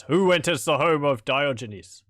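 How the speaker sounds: slow, loud and grand, like a magic mouth; slow, loud booming mouth in the wall. Acted. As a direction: announce it from the walls of the cave, slow. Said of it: "In a booming voice".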